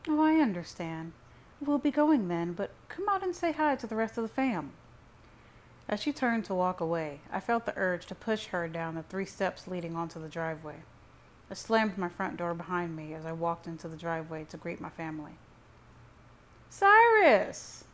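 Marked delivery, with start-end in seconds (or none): 0.1-4.7 higher mother's voice, pitch climbing; coaxing mother. A narrator's reading. Mother asks son to greet the family, coaxing. 16.7-17.8 very high, loud sing-out of the name; chimed greeting. A narrator's reading. Whole family greets Cyrus from the driveway, chiming. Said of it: "my family chimed in unison".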